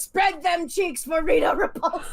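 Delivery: slow cartoon henchman impression; Goldar. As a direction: draw it out like a hammed-up monster henchman. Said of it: "a perfect on-spot Goldar impression".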